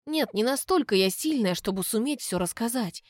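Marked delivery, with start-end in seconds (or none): none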